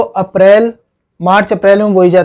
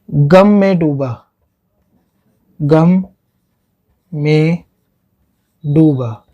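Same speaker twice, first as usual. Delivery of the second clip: very slow, long pause after each word; word-by-word dictation; 3 semitones lower, much slower than usual. Shown as a demonstration. Teacher spelling out a memory trick for students, word by word. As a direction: dictate it piece by piece as if writing it up.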